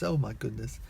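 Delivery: understated imitation of an American; American accent. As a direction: give a low-key American take on it. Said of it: "in an American accent".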